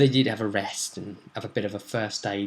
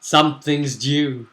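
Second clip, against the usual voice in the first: drawn-out, louder warning; ominous teaser; 2 semitones higher, 4 dB louder, slower than usual. Acted. Storyteller warns of the next threat, drawn out ominously. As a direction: stretch the words slowly for suspense.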